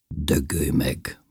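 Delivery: slow, low, whispered rebuff; hushed curse. A narrator's reading. Lili answering that he has a lover, hushed curse. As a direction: whisper it slowly, cutting him off.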